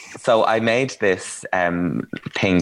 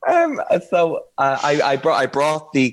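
laughing; 8 semitones higher than usual. Real, not acted. Still laughing while resuming.

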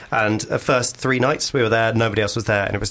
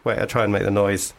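talking through a mouthful of water; words round a mouthful; mouth full; 5 semitones lower than usual. Real, not acted. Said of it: "mouth full of water".

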